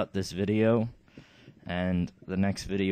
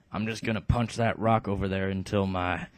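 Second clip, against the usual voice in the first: lightly voiced dim brute. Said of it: "the stupid character".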